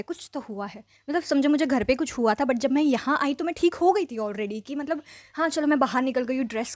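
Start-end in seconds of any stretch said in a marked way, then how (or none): 0.0-0.8 "कुछ तो हुआ है" repeated much softer, fading away; softer mock echo; trailing off. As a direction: let the insistence die out quietly. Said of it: "अंतर्यामी बन रहा था".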